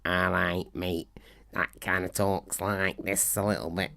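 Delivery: rough attempt at a Manchester accent. Shown as a demonstration. Showing listeners how Bill talks, amateur Manchester accent. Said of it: "how to do a Manchester accent".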